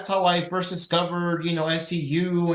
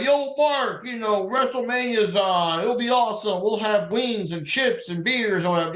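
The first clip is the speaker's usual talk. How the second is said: friendly invite; 3 semitones higher than usual. Retold or imitated. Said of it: "someone invite".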